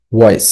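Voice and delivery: "ওয়েস" as a separate falling syllable; second syllable demonstrated. Shown as a demonstration. Teacher giving students the word's ending, "ওয়েস" said alone. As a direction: sound out "ওয়েস" after spelling it. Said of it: "উচ্চারণ করবে কিভাবে".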